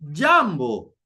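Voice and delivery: jambo with JAM stressed, BO falling; stress on first syllable. Shown as a demonstration. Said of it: "So there's a stress on".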